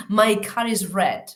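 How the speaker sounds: slow demo, R sounded between "car" and "is"; linking R. Shown as a demonstration. Teacher showing the intervocalic exception, R pronounced in "car is". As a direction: link "car" into "is" with an audible R. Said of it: "a no ser que quede intervocálica".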